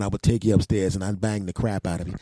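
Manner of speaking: ordinary delivery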